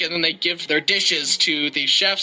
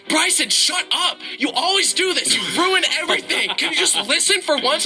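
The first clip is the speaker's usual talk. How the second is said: higher, fast-ish exasperated family chorus, laughing through it; family scolding; 7 semitones higher than usual. Retold or imitated. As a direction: nag him like an annoyed family. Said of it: "my family goes".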